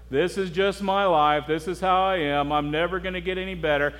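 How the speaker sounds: lightly voiced mopey resignation; mock self-pity. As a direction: imitate someone wallowing in pity. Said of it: "being in his own pity party".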